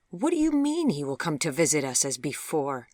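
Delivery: put-on older mother, indignant question; disbelieving mother; mother's voice.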